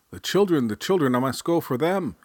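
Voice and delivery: put-on high, frantic cry about the children; panicked father.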